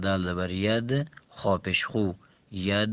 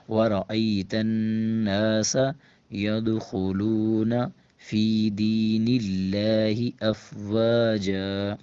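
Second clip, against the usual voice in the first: slow, drawn-out recitation, a little louder; Quran recitation; 4 dB louder, much slower than usual. Shown as a demonstration. Teacher reciting the verse for students, slow and chanted. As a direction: recite it slowly, with tajweed. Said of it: "روانگی کے ساتھ پڑھتے ہیں".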